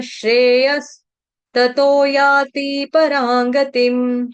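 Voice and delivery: slow, melodic chanting of the Sanskrit verse; verse recitation. Shown as a demonstration. Teacher chanting the whole Gita verse, slow and melodic. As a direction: draw out each word, chanting.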